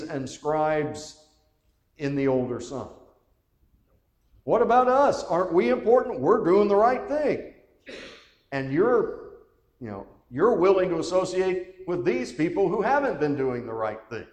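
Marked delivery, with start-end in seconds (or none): 4.4-14.3 loud, high, aggrieved whining protest; indignant whine. Acted. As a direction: complain like a jealous older brother who feels cheated. Voicing the older son's complaint.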